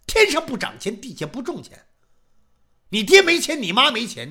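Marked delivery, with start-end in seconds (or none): 2.9-4.3 accusing. Acted. Magistrate interrogating accused.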